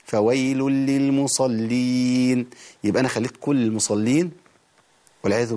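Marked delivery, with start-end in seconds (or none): 0.0-2.5 فويل للمصلين chanted slowly, stopping right after للمصلين; wrong stop demo. Shown as a demonstration. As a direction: show the bad pause after للمصلين. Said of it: "لو وقفت هنا هقول إيه؟".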